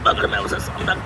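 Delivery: very high, strangled panic; choking while speaking. Acted. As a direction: force broken phrases out against a choke. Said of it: "आप अपना गला खुद दबा रहे हैं". (दबे गले से घुटी, ऊँची आवाज़)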